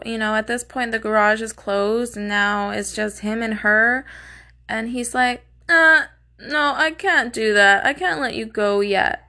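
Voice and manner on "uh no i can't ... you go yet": mock a condescending refusal, loud at first; imitating a rude, dismissive captor; retold snub, pushed out at the start. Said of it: "very fucking rude and condescending".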